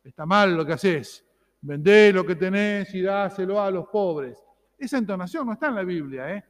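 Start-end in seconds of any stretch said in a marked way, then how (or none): 0.0-4.4 a hint of a severe judge, slower and firm; mild mock stern reproach; stern scolding Jesus. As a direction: wag the finger at the rich young man, lightly. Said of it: "sentencioso, severo".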